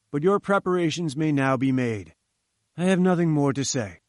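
a hint of a haughty scientist, lofty; lightly voiced pompous professor. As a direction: read it like a grand, self-important professor. Challenger lectures Jones.

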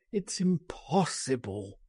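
softened, despairing refusal; groaned. A narrator's reading. Man refusing escape, a mild despairing groan. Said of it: "he groaned".

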